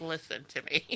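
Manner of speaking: imploring, begging, earnest pleading. Joking about arriving at the pearly gates: mock pleading with Saint Peter. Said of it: "pleading with Saint Peter".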